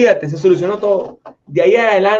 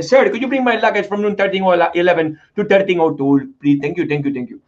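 put-on Hindi accent. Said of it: "con acento hindi".

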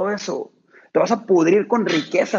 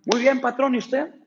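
put-on higher, humble old worker voice; a deferential old man answering his boss; old farmhand; 7 semitones higher than usual. Old worker Juan greeting his boss, higher and humble.

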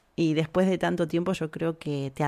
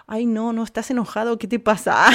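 higher, mildly dramatic protest; acted alarm; 4 semitones higher than usual. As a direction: plead as if someone is cross with you. Acted reaction to being called Ayelén. (protesta alarmada, actuada)

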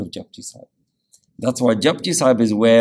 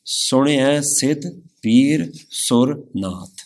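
slow, measured reading of scripture; slow devotional recitation; 2 semitones higher, much slower than usual. Shown as a demonstration. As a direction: recite each word slowly and reverently. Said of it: "So the pauri starts".

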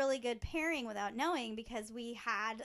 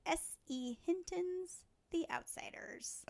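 whisper; 5 semitones higher, 5 dB quieter, slower than usual. Acted.

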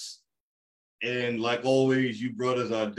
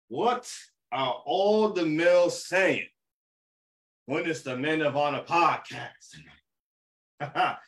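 sign-off call; 2 semitones higher than usual. Acted. Host rallying the brothers at podcast's end, call-out question.

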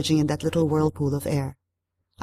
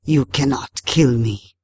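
low, slow creature stating a fact; unhurried water spirit, matter-of-fact; Tarabusao; 4 semitones lower, slower than usual. A narrator's reading. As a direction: say it simply, in a hoarse, deep spirit voice. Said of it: "it said simply".

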